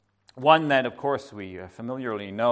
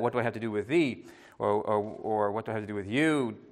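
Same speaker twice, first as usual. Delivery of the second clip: tender; 5 semitones lower, 4 dB quieter than usual. Pretend. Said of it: "he's tenderly teaching her".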